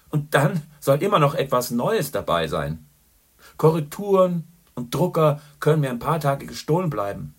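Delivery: loud, high, jovial barroom greeting; a boisterous journalist ordering whisky for his friend; hearty old pal. A narrator's reading. Boastful Gallagher greets Chandler, loud and jovial.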